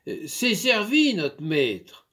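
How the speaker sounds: a hint of a shy maid calling; timid maid. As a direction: announce the meal timidly. Maid announces dinner.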